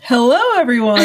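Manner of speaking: chuckling hello, voice warm with laughter; laughing greeting. Real, not acted. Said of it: "I feel like I needed my announcer voice".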